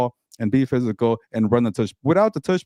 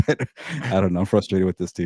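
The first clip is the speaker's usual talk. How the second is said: laughing frustration; 4 semitones lower than usual. Real, not acted. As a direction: laugh off your own frustration.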